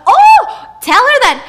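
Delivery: a shrieking high, very loud retort; a furious queen screeching her secrets; riled up. Acted. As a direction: lash back with venom, way up high. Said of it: "she was riled up".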